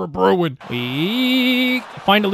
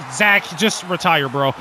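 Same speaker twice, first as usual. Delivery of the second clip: mocking shout. Real, not acted. Mocking opposing player in game.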